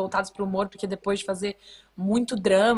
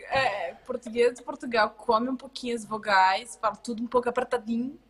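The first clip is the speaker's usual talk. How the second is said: European Portuguese accent. Shown as a demonstration. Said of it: "não sei fazer".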